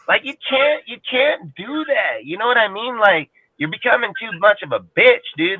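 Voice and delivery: high-pitched indignant protest; exasperated disbelief. Real, not acted. Indignant rant against pampering players.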